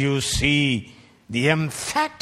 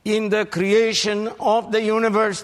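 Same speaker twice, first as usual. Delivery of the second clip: mock quote; 8 semitones higher, 4 dB louder than usual. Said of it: "who said".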